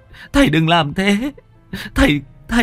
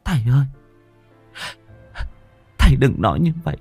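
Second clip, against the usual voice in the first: higher, tearful daughter begging her father to stop; sobbing daughter; 6 semitones higher, faster than usual. Acted. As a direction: plead through light sobs. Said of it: "Huê khóc nấc lên".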